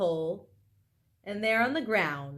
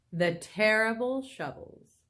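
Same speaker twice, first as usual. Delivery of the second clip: hushed, spooky whisper. Real, not acted. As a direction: breathe it out fearfully. Reader whispers aside to child.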